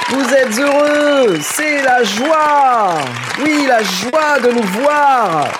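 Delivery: very high, slow, sing-song host; squeaky put-on voice, drawn out; high silly voice. Hosts' silly opening greeting.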